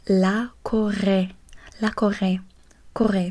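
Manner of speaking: "La Corée" said slowly in French; French pronunciation. Shown as a demonstration. Tutor showing student Korea in French, "La Corée" carefully pronounced. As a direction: sound out "La Corée" clearly, then repeat "Corée". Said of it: "learn how to say Korea".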